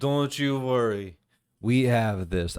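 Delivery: put-on Russian accent, lightly done. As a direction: reassure in a mock Russian accent. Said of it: "I do a Russian accent".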